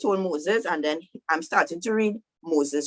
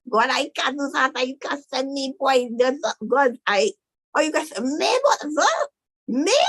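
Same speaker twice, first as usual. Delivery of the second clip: high, stammering disbelief; hammed-up protest, words tumbling over each other; flustered Moses; 7 semitones higher than usual. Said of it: "That's basically what Moses do".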